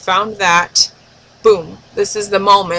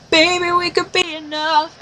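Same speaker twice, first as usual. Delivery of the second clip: sure tone; 9 semitones higher than usual. Retold or imitated. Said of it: "adopted his sure tone again".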